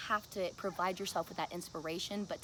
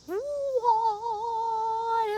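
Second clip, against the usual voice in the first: surprised; 12 semitones higher, 9 dB louder than usual. Real, not acted. Shocked at the Webkinz find.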